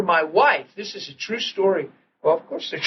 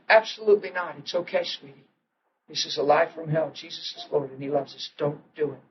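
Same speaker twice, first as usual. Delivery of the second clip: softer, steady voice settling her down; calm reassurance; 2 semitones lower, 6 dB quieter than usual. Retold or imitated. Husband soothing his frightened wife, soft and firm. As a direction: gently talk her out of panic.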